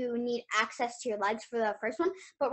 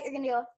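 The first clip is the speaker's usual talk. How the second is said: long snake hiss; drawn-out s like a snake; much faster than usual. Shown as a demonstration. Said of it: "a sound like a snake, a hissing sound".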